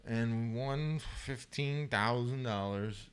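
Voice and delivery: slow, dragged-out dazed voice; lightly voiced dazed fighter; punch-drunk slap boxer. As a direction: play a slap boxer with a mushy brain.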